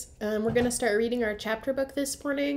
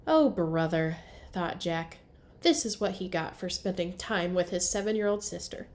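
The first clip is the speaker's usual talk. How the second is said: storybook read-aloud for young kids, characters voiced; story narration. A narrator's reading. Teacher reading to first graders, lively storybook narration.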